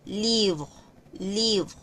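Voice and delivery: livre with a silent final E; French pronunciation demo. Shown as a demonstration. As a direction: livre clipped to liv. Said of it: "la E no se pronuncia".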